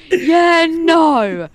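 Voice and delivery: sudden high shouted yeah; loud fake enthusiasm; mock yell. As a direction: bark it out like a hype gamer. Fake yells on call.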